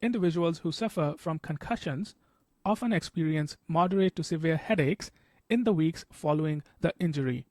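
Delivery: measured read-aloud, stressing "concussions", "headaches", "injury"; tonic stress reading. Shown as a demonstration. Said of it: "So I would read this first sentence as".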